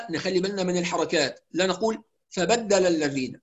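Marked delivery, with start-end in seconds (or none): 2.3-3.4 "فبدل الذين" hurried with clipped short vowels; snatched vowels. Shown as a demonstration. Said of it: "ده اختلاس". ("فبدل الذين" باختلاس الحركات)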